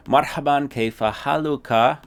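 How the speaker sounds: bright, loud, high friendly greeting; cheerful greeting. Shown as a demonstration. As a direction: greet them warmly and loud.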